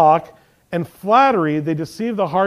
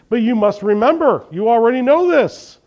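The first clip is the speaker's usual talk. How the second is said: higher, insistent appeal; earnest appeal; 5 semitones higher, 4 dB louder than usual. Acted. Preacher reading Jude's reminder to the congregation, insistent appeal. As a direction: urge it emphatically, pitched up. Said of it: "he appeals".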